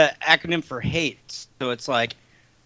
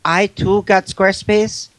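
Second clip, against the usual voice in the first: put-on terrible Spanish accent. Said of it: "The terrible Spanish accent".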